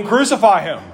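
mild mock yell of a mob; restrained imitation of a yelling crowd; imitated crowd yell. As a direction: call it out like the jeering crowd, half-restrained. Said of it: "be yelling".

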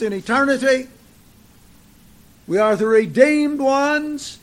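measured, insistent pulpit proclamation; emphatic preaching. Real, not acted. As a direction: preach it with weight, lingering on key words. Preaches with raised, emphatic delivery.

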